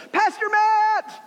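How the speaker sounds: put-on high, slow excited call of a child. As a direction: call his name across the room like a kid. Kids calling to the pastor.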